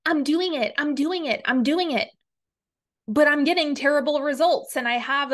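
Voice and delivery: lightly mocking, repetitive insistence; imitated protest. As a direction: chant it like a mock protest. Mimics people who complain it isn't working.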